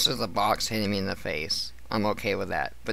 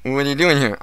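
retold demand; 5 semitones higher, 8 dB louder than usual. Retold confronting coworker at tower.

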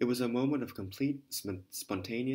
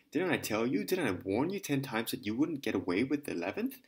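angry berating. Acted. Lieutenant berating the lady.

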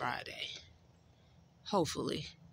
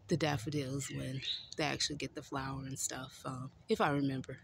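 out of breath; 4 semitones lower, 4 dB quieter, faster than usual. Real, not acted. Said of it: "I'm sorry I'm out of breath".

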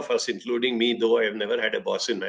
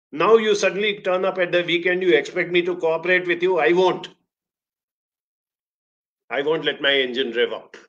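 playful bike voice, higher, like a neglected sulking lover; 4 semitones higher than usual. Pretend. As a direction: scold him as the bike he ignored all week, hammed up a little. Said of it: "The bike never says".

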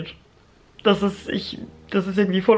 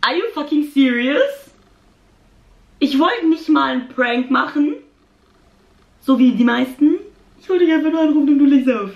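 indignant; 5 semitones higher than usual. Real, not acted. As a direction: protest being hung up on. Fan hung up on her.

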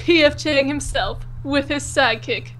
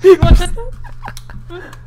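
slow, drawn-out teasing taunt; 4 semitones higher, 5 dB louder, much slower than usual. Acted. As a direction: dare him, stretching it out. Teasing challenge to friend.

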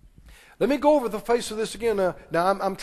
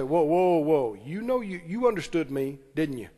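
put-on parent calling child out; 4 semitones lower, 4 dB quieter than usual. Shown as a demonstration.

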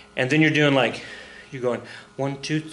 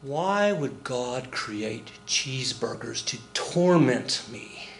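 anguished superego; 4 dB quieter, much slower than usual. Retold or imitated. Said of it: "the superego is like".

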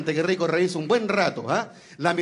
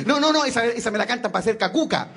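put-on little boy voice; 5 semitones higher than usual. Boy rejecting the policeman's song, high childish protest. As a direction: pitch up, protest like a kid.

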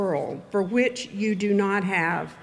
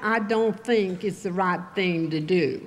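mocking Texas accent. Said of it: "a really deadly mockery of my Texas accent".

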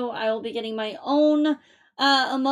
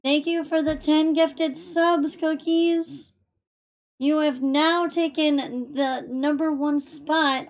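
excited thanks; 4 semitones higher, 3 dB louder, slower than usual. Real, not acted. Thanking viewer for gifted subs.

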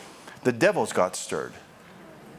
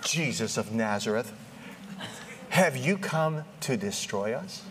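demon; 4 dB quieter than usual. Acted. Demon confronting Jesus in church, lightly voiced demon. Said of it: "this is what the demon said".

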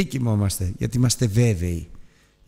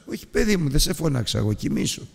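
put-on gentle old priest, trailing off; soothing; 5 semitones higher than usual. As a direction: lull the boy back to sleep. Eli soothing boy again.

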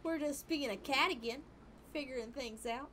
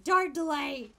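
Dar delay! called out louder, with a falling punch; louder exclamation; 2 semitones higher, 9 dB louder, slower than usual. Shown as a demonstration. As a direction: repeat it as a joking exclamation.

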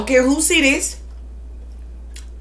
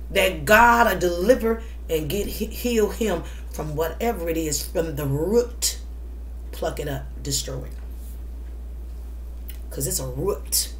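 prayer. Acted. Prays over son.

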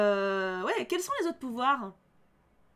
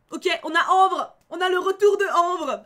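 excited; 4 semitones higher, 9 dB louder than usual. Real, not acted. Excited at a returning character.

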